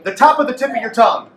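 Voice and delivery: quick, crisp model for the class to repeat; brisk call for the class to repeat; teacher model line. Shown as a demonstration. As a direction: say it briskly so they can copy. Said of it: "everybody repeat after me".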